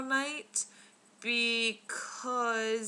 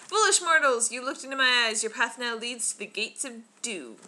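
booming doom-laden idol voice; dark lord; 5 dB louder than usual. Retold or imitated. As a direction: proclaim it like an angry temple god. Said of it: "quoting, the Indiana Jones ride".

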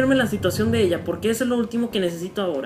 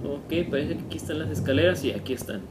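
hushed, soft and low; whispering while hiding; 7 semitones lower, 6 dB quieter than usual. Real, not acted. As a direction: keep it down, he's near. Sneaking down the stairs.

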